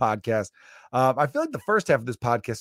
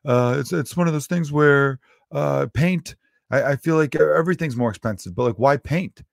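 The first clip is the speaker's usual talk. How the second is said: barfly rambling; 4 semitones higher, 4 dB louder than usual. Retold or imitated. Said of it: "And then he's just like".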